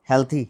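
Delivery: हेल्थी with a soft dental th; soft th sound. Shown as a demonstration. Teacher showing the class the th in हेल्थी. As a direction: say हेल्थी with the tongue touching the teeth. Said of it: "थ देना".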